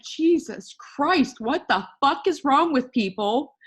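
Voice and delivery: exasperated outburst, first words drawn out; acted exasperation. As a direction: vent in mock despair at people. Acts out exasperation at people.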